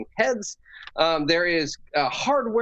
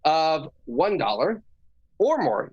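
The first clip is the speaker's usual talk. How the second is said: sales pitch voice; 5 semitones higher, slower than usual. Acted. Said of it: "that is my spiel".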